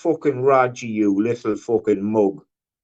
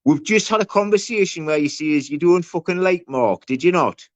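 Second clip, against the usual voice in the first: heated accusation; 6 semitones higher than usual. Real, not acted. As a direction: press him hard, indignant. On-air quarrel with co-host.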